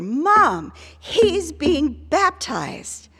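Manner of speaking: put-on loud, very slow, drawn-out, sing-song toddler voice. Retelling her young son speaking to her at a baptism, in a mock loud child voice. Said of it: "said to me in a really loud voice".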